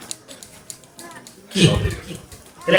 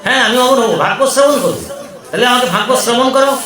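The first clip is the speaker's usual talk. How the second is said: higher, eager request; eager Parvati; 4 semitones higher than usual. Acted. Parvati eagerly asks Shiva to recite the Bhagavata, higher. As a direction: beg to hear it.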